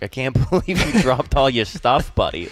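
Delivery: mock scolding in a Boston accent. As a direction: scold a stranger like a gruff-but-helpful Bostonian, Boston accent. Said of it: "Oh, the accent".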